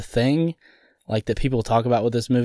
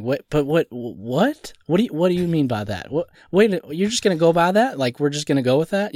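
higher-pitched, incredulous self-quote; baffled disbelief; 4 semitones higher than usual. Retold or imitated. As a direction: replay your stunned questioning at each plot hole. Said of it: "of me going".

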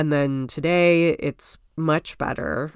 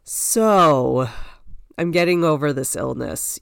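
sick voice. Real, not acted. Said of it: "You might be able to hear it in my voice".

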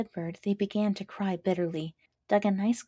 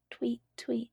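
a soft, higher tweet tweet; faint mournful tweet; 5 semitones higher, 3 dB quieter than usual. A narrator's reading. Dying lark's faint mournful tweet. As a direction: chirp it weakly like a dying bird. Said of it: "A faint and mournful".

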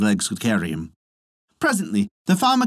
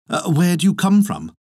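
put-on old wife's voice; 7 semitones higher than usual. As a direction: ask like a nosy old wife. Old wife questions the soldier.

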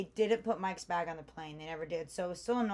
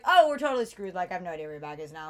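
panicked; 9 dB louder, faster than usual. Retold or imitated. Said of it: "So I was like".

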